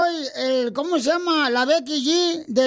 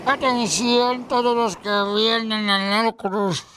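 ship captain; slower than usual. Acted. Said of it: "dice el capitán del barco".

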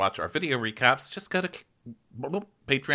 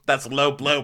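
laughing repeat; 4 semitones higher, 5 dB louder than usual. Retold or imitated.

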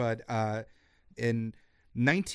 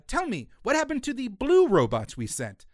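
astronaut voice; 8 semitones higher than usual. Retold or imitated. Astronaut voiced in retold comic.

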